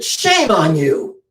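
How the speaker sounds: Dorothy scolding the lion, mildly stern. Retold or imitated. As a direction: scold the bully firmly. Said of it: "slaps the cowardly lion on the nose and said".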